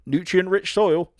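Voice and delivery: high, loud, drawn-out savoring; hammed-up slow gourmet tone; slow high mock appreciation. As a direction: relish it slowly and high. Voices roommate.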